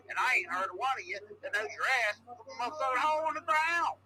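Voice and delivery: cranky caller ranting; lightly voiced angry caller; grumbling phone rant; irate caller.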